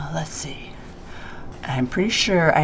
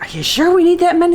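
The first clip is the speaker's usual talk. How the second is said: imitating dad; 12 semitones higher, 5 dB louder, faster than usual. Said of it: "your dad's always like".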